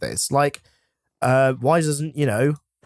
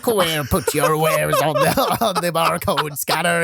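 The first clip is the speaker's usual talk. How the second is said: pirate ordering wares onto scanner; hearty pirate command, laughing. Retold or imitated. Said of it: "with pirate voices".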